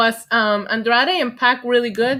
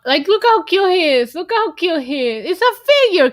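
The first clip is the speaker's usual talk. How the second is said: gushing; 6 semitones higher, 5 dB louder than usual. Real, not acted. Defending the figure.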